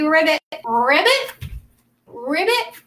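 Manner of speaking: croaky ribbit calls; frog voice. Shown as a demonstration. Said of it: "Do the frog voice too".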